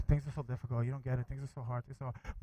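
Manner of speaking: a quiet, defeated whine, fading away; mock complaining. A congregant sighing to the preacher, mock defeated whine. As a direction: mimic a worn-down believer moaning that life is hard. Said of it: "We just say".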